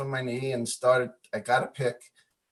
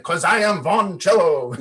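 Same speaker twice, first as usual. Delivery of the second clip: a milder, laughing replay of the declaration; half-hearted mock proclamation; retelling the outburst with a grin; lightly retold anger; 4 semitones higher, 4 dB louder than usual. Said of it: "I just got angry".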